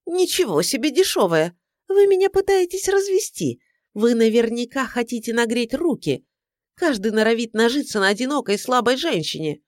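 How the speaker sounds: high indignant complaint. A narrator's reading. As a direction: play the wronged lonely woman. Client accuses detective of cheating. (возмущённая жалоба)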